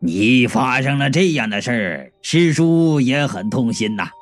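low, solemn condolence breaking into chuckles; badly faked sorrow. Uncle fakes sympathy for his disciple, laughter leaking through. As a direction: pretend to grieve, then let the laugh leak out. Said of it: "你要装的悲伤就装的全面点儿".

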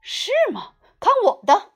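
high, loud boastful principal; show-off boast; confident principal. Acted. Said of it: "校长说".

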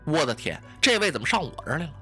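a low gasp, then the rest rushed out fast; hushed and hurried, caught off guard; a touch of alarmed muttering; startled aside. Acted. Miao Cheng startled by visitor.

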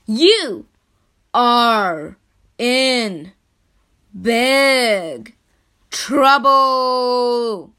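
each word separate and loud; word by word scolding. Acted. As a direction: spell out the threat slowly. Chief scolds Dog Man.

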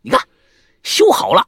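high, loud mocking boast; mocking Fang ge. Mimicking the dance leader boasting he can fix it, high mock voice. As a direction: ham up a cocky fixer. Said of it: "对着前人".

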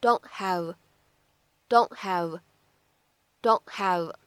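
don't have said slowly with the t unreleased; don't have, t held before have; incomplete plosion. Shown as a demonstration. 老师慢速示范 don't have 的不完全爆破. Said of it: "可以读成是".

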